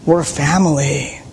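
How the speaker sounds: slow, gentle father pleading; tender father. Retold or imitated. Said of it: "He says".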